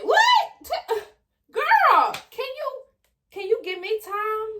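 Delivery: high, pleading mock exasperation; exasperated. Pregnant teen begging her friend for time, high and exasperated.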